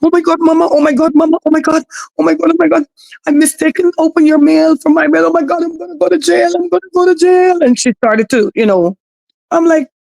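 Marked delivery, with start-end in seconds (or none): 0.0-7.6 high, frantic, put-on panicked babbling. Retelling how a woman reacted over opened mail, imitating her fake panic. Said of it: "pretending as though as if she's panicking".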